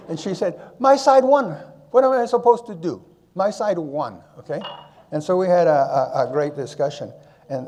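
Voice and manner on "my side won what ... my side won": excited wife. Retold or imitated. Wife telling her husband why she cheered. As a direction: defend the cheering with glee. Wife defends yelling at ceremony.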